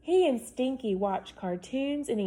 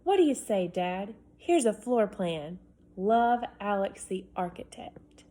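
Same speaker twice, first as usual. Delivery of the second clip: higher, louder, bubbling with big plans; excited boy; 4 semitones higher, 4 dB louder than usual. Acted. Boy pitching his dream house to dad, excited. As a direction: pile on the wishes excitedly. Reads Alex's letter aloud.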